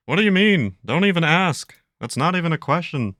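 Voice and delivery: high, loud, indignant cartoon dad; exasperated drawling protest; Hank Hill impression. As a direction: take offence at the very question. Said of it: "what does Hank think".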